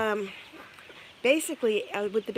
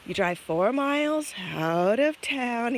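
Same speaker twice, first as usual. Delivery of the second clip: put-on slow, over-patient talking down to a child; mock condescending neighbor, drawn out; talking down slowly; 2 semitones higher, slower than usual. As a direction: spell it out like to a toddler. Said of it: "He's talking to me like I'm a".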